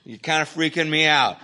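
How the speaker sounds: high, loud rattled telling-off; freaked out. Retold or imitated. Speaker telling sleepwalking coworker he's freaking out, high and loud. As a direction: tell him he's scaring you.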